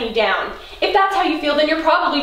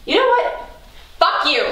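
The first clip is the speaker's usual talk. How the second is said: angry; 4 semitones higher than usual. Acted. Fight escalating.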